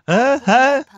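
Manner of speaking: high puzzled dad grunts; dad imitation. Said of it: "your father's like".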